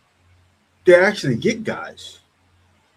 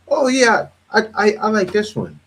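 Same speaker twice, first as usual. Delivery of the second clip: high playful pretend bar chat; pretend flirt; 5 semitones higher than usual. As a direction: act out a woman chatting up a guy over drinks, pitched up. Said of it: "acted bar chat".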